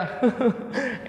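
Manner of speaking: short high mock sobs; brief put-on sob; imitated sobbing. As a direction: act out a child's sobbing. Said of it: "Nangis sedu-sedu".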